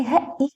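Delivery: है इट sounded out in parts with a short vowel. Shown as a demonstration. Teacher reading a closed syllable, short-vowel sounding out. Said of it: "short होती है".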